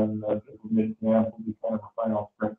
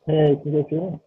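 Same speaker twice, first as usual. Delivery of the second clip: tin can; 5 semitones higher than usual. Real, not acted. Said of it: "It sounds like you're in a tin".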